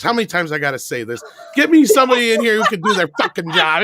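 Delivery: mock exasperation building; Casey Kasem losing it. Radio host demanding competent help, building mock anger. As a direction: imitate a host's temper rising to high pitch. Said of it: "Casey Kasem losing it over".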